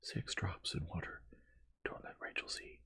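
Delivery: soft, breath-only secret instruction; whispered. A narrator's reading. Sick aunt hiding her medicine from her daughter, whispered. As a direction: whisper it so only one person hears. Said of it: "she whispered".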